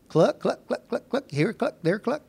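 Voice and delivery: chirpy little hen clucks; playful mock chicken noises; clucking chicken. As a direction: cluck like a busy hen, laughing. Imitating chickens.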